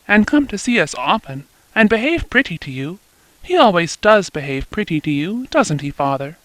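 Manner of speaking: lightly voiced young girl, eager and bright-pitched; a light lift for a young daughter telling her news, a bit quick. Eppie voiced by narrator.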